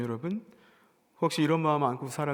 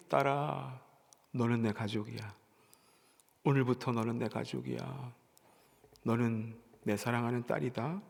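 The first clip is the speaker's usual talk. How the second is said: tender; 3 semitones lower, 4 dB quieter than usual. Acted. God embracing the outcast woman.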